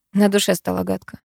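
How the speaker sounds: usual speaking voice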